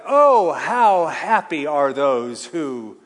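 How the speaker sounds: slow, loud, drawn-out joyful proclamation; stretched out rejoicing; exultant reading. Shown as a demonstration. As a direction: savour each word, full of wonder. Preacher dramatizes the translated verse.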